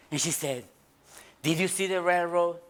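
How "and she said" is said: ordinary delivery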